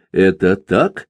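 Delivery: usual speaking voice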